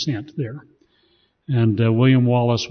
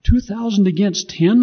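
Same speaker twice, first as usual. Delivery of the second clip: higher, louder, slow protesting shout; a veteran doubting the odds; read-out shout; 9 semitones higher, 7 dB louder than usual. A narrator's reading. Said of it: "a veteran shouted".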